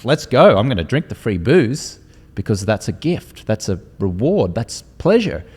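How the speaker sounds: loud, hammed-up party excitement; mock eager partygoer. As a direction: play your old self diving into the open bar. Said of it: "I'm like".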